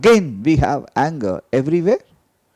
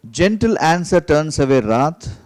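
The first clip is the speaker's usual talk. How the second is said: louder reading; 3 dB louder than usual. Shown as a demonstration. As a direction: read out firmly, a bit louder. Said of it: "Let me read the word again".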